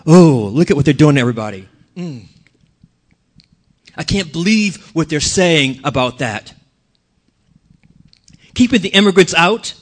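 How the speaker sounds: understated indignant grumbling; mild anger. Acted. Preacher demonstrating the poison of anger, mildly indignant. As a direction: play at being outraged, holding most of it back. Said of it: "This is anger".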